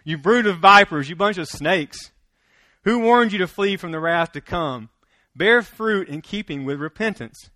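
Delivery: loud, stern preaching of John's words; fierce rebuke. Retold or imitated. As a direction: give it to them hard, like a prophet scolding. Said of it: "John, he just gives it to them".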